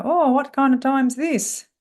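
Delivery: high, loud, pointed greeting to a latecomer; mock a boss calling out lateness; put-on affronted singsong; sarcastic scolding. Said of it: "What I often hear is they go".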